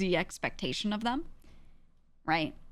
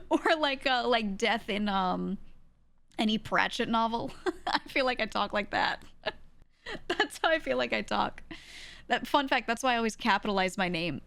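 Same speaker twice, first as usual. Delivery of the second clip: ordinary talk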